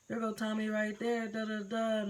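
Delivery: mimicked girls. Girls at the door pointing out Tommy, lightly mimicked.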